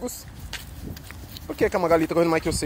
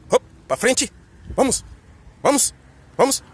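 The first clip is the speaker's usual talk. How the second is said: urging call; 5 semitones higher, 4 dB louder than usual. Real, not acted. Urging dogs forward on walk.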